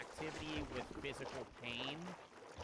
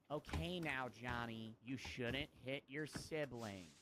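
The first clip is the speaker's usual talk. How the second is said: slow, measured mock-gentle parent; lightly acted patient parent; slower than usual. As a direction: gently correct a child, drawing the words out. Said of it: "gentle parenting and being like".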